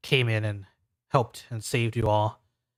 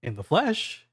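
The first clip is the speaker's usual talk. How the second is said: Ethan; 6 semitones higher, slower than usual. Acted. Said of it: "he says".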